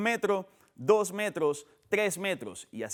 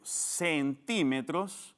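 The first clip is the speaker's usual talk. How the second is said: centímetros said very slowly with the weight on the syllable TI, ending on a rise; stress on the TI; 3 semitones lower, 3 dB quieter, much slower than usual. Shown as a demonstration. Teacher showing students where the accent falls, slow and stressed. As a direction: stretch out centímetros and lean on the accented TI. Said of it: "con tilde en la I porque es esdrújula".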